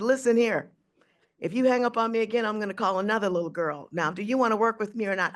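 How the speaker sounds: fast, firm telling-off; a hint of a gruff boss laying down terms; stern bandleader. A bandleader scolding her on phone.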